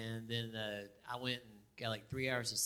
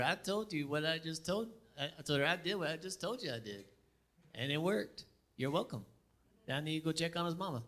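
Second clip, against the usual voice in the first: higher and louder, fed-up insistence; exasperated retort; 6 semitones higher, 3 dB louder than usual. Retold or imitated. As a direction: repeat yourself, done arguing. Father retorts to doubting nurse.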